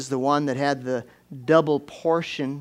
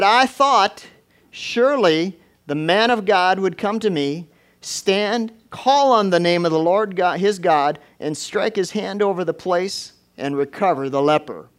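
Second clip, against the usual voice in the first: raised, emphatic quote from scripture; forceful preaching; 4 semitones higher, 6 dB louder than usual. Acted. Preacher quoting offended Naaman to congregation, forceful and raised. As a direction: preach the indignant words out strongly.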